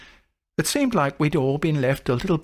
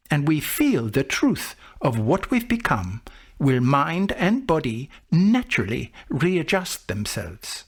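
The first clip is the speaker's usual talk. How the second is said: calm wise teacher; 4 semitones higher than usual. Retold or imitated. Monk explains the truth.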